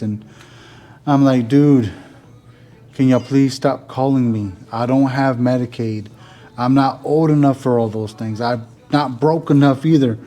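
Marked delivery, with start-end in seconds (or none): 1.5-10.2 retold telling-off. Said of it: "I kinda went off on the person".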